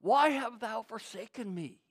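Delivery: anguished question, easing down from the cry; crying out in pain. Acted. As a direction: ask it as a forsaken plea. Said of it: "cried out".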